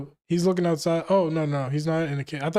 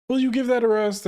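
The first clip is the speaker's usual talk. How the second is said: high, sharp mock scolding; exasperated scold; 7 semitones higher, 3 dB louder than usual. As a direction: snap at the pervert to stop. Princess scolding Brook.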